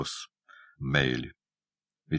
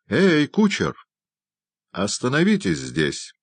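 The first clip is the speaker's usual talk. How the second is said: shouting to the coachman; 8 semitones higher than usual. Acted. Doctor shouts to the coachman to stop. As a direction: stop the carriage at once. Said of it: "крикнул доктор".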